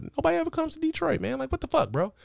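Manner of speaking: high, fast, fed-up griping; exasperated complaint. Real, not acted. To his family, nobody visits Detroit: high exasperated whine.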